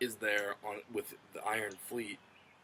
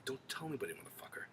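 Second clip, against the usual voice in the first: hushed whisper, mock secrecy; secret whisper; 3 semitones higher, 10 dB quieter, faster than usual. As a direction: whisper it like a warning nobody must hear. Daenerys swears Jon to secrecy.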